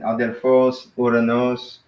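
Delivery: "Adelphos", "uranos", each stressed on the final syllable; last-syllable stress. Shown as a demonstration. Teacher comparing two similar words, end-stressed. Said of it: "accent is at the end".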